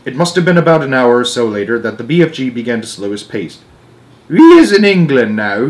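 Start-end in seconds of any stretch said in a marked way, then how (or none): 4.3-5.7 sudden remark. A narrator's reading. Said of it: "he said suddenly".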